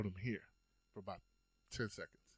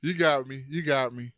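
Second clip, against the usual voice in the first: mock dad laugh; 6 dB louder than usual. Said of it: "my dad going".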